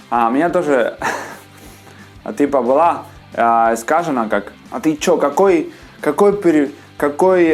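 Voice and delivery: usual speaking voice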